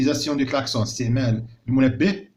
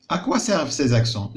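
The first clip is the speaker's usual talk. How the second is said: slow question; 3 semitones higher, much slower than usual. Shown as a demonstration. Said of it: "علاش كيصلحوا لنا هاد لي زاكسون".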